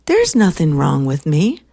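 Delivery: imitating firm self-assertion; no-BS secretary. Secretary rejecting self-doubt, firmly no-nonsense. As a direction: state it pointedly in her voice. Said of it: "she's like, no B S".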